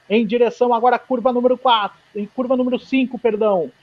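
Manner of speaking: live play-by-play of a qualifying lap; motorsport commentator. Real, not acted. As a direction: call the lap as it happens.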